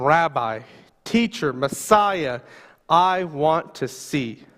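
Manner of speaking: slow humble plea. Acted. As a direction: ask simply, with every word weighed. Beggar's humble request to Jesus.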